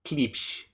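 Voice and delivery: "Klipsch" copied softly with a "psh" ending; "Klipsch" as a soft, unsure echo; tentative pronunciation. Shown as a demonstration. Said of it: "Is that, is that it?".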